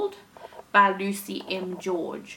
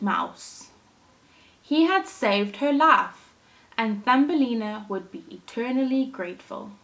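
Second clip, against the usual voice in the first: put-on lively storytelling for children; animated read-aloud for little listeners; story narration; 2 semitones higher than usual. A narrator's reading. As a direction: read it like a picture book to a class. Teacher reads story aloud.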